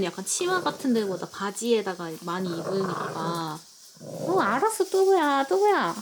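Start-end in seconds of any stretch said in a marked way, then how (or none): 4.0-6.0 talking to pet. Real, not acted. Talking to her dog.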